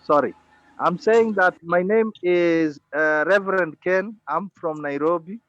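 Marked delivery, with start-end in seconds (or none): 0.0-4.2 speaking louder. Real, not acted. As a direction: raise the voice to be heard. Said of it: "Can you speak louder?".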